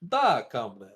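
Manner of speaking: low, hammy Russian voice; Russian accent. Acted. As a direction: growl it like a Russian soldier. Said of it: "What's a Russian thing?".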